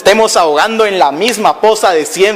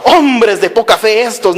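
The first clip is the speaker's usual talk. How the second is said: mildly imitated angry preacher; mock angry rebuke. Shown as a demonstration. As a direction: scold lightly in imitation, at normal pitch. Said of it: "así que el Señor enojado". (regaño enojado fingido, leve)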